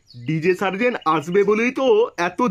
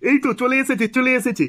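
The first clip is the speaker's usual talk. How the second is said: excited; 4 semitones higher than usual. Real, not acted. DJ's car finally arrives.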